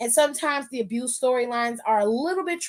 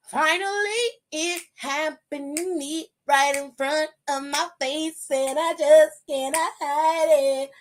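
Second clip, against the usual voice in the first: savoring each word slowly; drawn out, delighted; slow gleeful relief; 3 semitones higher, slower than usual. Retold or imitated. Recapping the match to viewers, slow gleeful relief. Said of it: "I was like".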